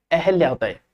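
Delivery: अहल्या with no i after ह; the correct अहल्या; correct form. Shown as a demonstration. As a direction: say अहल्या, a clean ह with no i. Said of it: "अहिल्या नहीं होता है".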